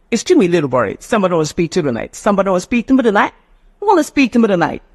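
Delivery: quick, linked TONIGHT with softened Ts; accurate English. Shown as a demonstration. Teacher demonstrating accurate English to learners, quick flapped delivery. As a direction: rattle off SPEAK TO ME TONIGHT, Ts flapped. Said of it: "That one is called accurate English".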